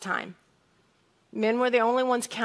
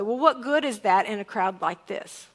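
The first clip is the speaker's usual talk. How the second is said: a brisk, dismissive rhetorical question; dismissive reading; 2 semitones lower than usual. Shown as a demonstration. Preacher shows congregation his usual reading of Andrew's question, dismissive. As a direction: toss it off as one quick, doubtful question. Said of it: "I've read this this way".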